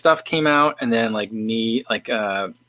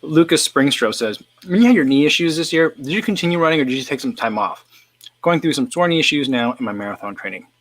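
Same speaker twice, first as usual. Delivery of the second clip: talking with mouth full; words through a mouthful of food; 4 semitones higher than usual. Real, not acted. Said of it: "I'm gonna talk with my mouth full here".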